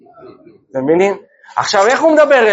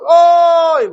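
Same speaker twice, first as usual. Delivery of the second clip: retold cry of dismay; 7 semitones higher, much slower than usual. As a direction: cry out as your basket spills. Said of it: "היא מתחילה לצעוק".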